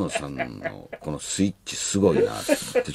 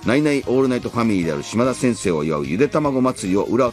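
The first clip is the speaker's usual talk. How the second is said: trailer narration; 2 semitones higher than usual. Acted. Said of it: "予告ナレーションが流れていました".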